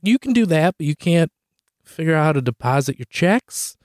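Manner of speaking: mock-outraged question; retold exasperation. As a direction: scold mom in baffled disbelief. Retold disbelief at mom using app.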